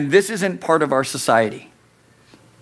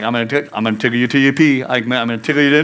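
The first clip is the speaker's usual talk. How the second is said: fast playful tickle threat; teasing dad; 4 semitones lower, much faster than usual. Retold or imitated. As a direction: rattle it off as a teasing father. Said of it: "I used to always be like".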